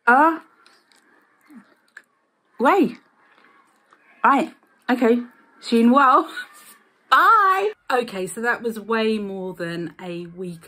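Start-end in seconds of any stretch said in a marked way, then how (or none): 0.1-7.7 strips on teeth, slight lisp; talking around teeth strips; speaking with whitening strips on. Real, not acted. Seen 1: Applied strips just before; talks with strips on, presses mouth.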